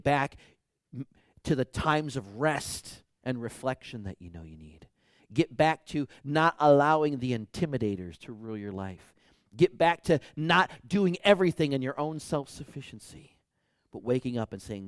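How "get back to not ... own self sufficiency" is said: louder, pressing each line; rising exhortation. Real, not acted. Preacher exhorting congregation, building louder. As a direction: build the charge to the church.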